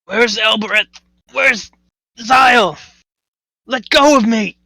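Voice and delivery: panicked. Acted. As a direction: call out in fear. Panicked character searching for friends.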